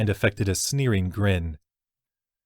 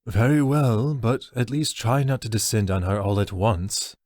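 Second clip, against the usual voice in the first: regretful orc elder; 2 semitones higher than usual. Acted. Tagathis voiced, reluctant.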